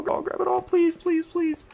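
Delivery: high, pleading "please, please"; begging the game under his breath; desperate pleading. Real, not acted. Rushing to grab items, begging.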